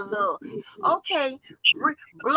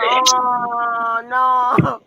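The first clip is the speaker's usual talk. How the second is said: dismayed; 6 dB louder than usual. Retold or imitated. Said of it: "I'm like".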